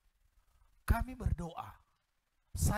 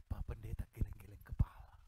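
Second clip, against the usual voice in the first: whispered, hushed amazement; awed whisper; 7 semitones lower than usual. Real, not acted. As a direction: breathe it in wonder. (berbisik takjub)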